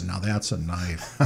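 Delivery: slow, laughing movie-line delivery; Crocodile Dundee quote. Retold or imitated. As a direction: drawl it out like the movie line with a chuckle. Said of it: "Like Crocodile Dundee".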